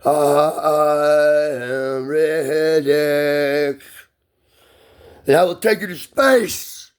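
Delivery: long drawn-out opening, then rising declamation; Riddick movie voice. Acted. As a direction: intone it like an epic film voiceover. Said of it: "You need that voice in that movie".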